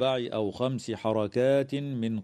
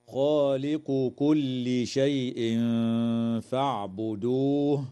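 Quranic recitation; slower than usual. Shown as a demonstration. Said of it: "قوله تعالى".

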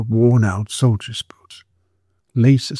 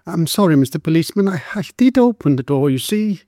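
nervous apology; 6 semitones higher than usual. Acted. Frightened girl apologizes to policeman.

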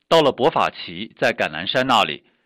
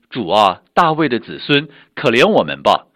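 loud insistent plea for mercy; crying out louder; 7 dB louder than usual. Acted. Blind men shouting over the crowd, loud begging. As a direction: cry out again, louder, over the rebuking crowd. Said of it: "他们却越发喊着说".

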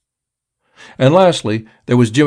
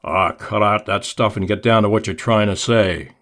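ordinary delivery

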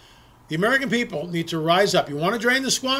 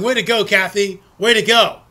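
mock insider cheer; 5 dB louder than usual. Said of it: "they're all laughing and going".

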